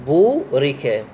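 بورك with a lengthened "uu"; elongated vowel. Shown as a demonstration. Teacher pointing out the natural madd, "uu" in بورك held long. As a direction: hold the waw of بورك for two beats. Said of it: "هذا يصير عليه مد".

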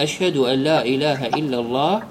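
low recitation stopping at الله without a case ending; stop on sukun. Shown as a demonstration. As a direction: end الله on a vowelless h. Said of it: "يستطيع أن يقف على ساكن".

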